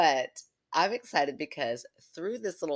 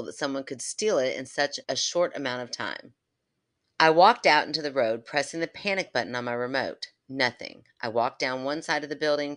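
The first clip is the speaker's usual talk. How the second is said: story reading. Acted.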